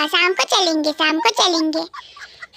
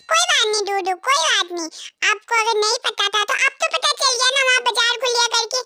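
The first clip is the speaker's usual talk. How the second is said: higher, sweet wife's voice, wheedling; coaxing wife voice; 4 semitones higher than usual. Acted. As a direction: coax the husband into the market trip. (पत्नी पति को बाज़ार ले जाने के लिए मनाती है, ऊँची मीठी आवाज़ में)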